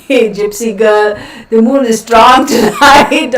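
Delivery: laughing through the words, slow; giggling while reading a comment. Real, not acted. Streamer reading a viewer comment, laughing.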